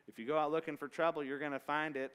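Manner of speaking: put-on quick, folksy southern accent on an old saying. Preacher tossing off the saying in a southern accent. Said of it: "southern accent on it".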